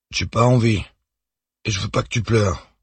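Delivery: put-on a small boy refusing to go back to bed; lightly voiced little boy; child voice. A narrator's reading. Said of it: "son fils Victor".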